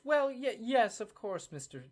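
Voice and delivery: a flustered clerk gushing politely; flustered official. Acted. Madame Longquill inviting Bryce into her office, high and eager. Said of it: "Madame Longquill goes".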